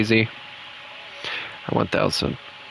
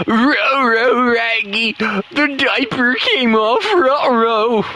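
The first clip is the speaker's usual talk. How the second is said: higher, strained cartoon dog voice; Scooby-Doo; 4 semitones higher, slower than usual. Gamer narrating his mistakes as a cartoon dog, strained and higher. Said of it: "why do I make Scooby-Doo sound like he's straining".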